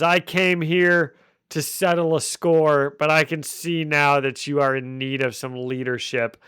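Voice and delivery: lightly voiced menacing crime boss; a hint of a villain announcing himself; scary villain monologue. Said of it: "did the whole scary monologue pretty well".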